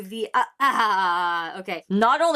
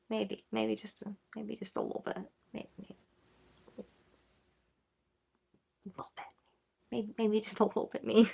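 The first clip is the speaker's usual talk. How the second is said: fading to near silence, teasing; trailing mock repeat; 10 dB quieter than usual. Shown as a demonstration. Repeating the line to himself, fading quieter. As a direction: let the repeats die away. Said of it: "When I repeated that back".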